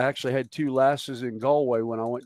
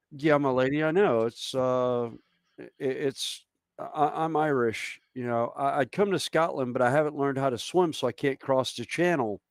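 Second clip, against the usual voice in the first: put-on Irish accent. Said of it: "but more an Irish accent".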